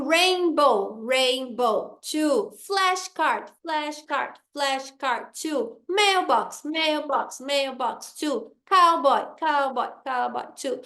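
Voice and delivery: each compound word chanted in two even beats; rhythmic classroom drill, both halves of "rainbow" weighted; counting word beats. Shown as a demonstration. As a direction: beat out "rainbow", "flashcard", "mailbox", "cowboy", then count "two". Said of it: "fazendo os beats".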